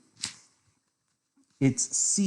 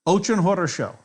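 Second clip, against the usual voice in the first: Russian phrase; 4 semitones higher than usual. Shown as a demonstration. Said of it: "That's all I know".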